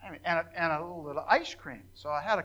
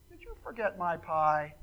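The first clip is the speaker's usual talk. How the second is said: gently, a touch softer, no edge at all; patient and kind; 6 dB quieter than usual. Retold or imitated. To the busy waitress who forgot his pie, patient and kind. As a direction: ask kindly, swallowing the irritation. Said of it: "in a very patient and kind voice".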